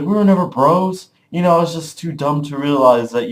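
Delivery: retold scornful reply; bitter retort. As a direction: throw back a mock indignant accusation. Dog retorts in quarrel.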